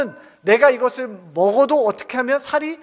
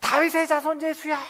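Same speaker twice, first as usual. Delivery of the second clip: high-pitched imitated holler; acted high, strained call; mock full-throated cry; 6 semitones higher than usual. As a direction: cry out as if to reach someone over a crowd. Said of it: "목청이 터져라 외쳤을 것입니다".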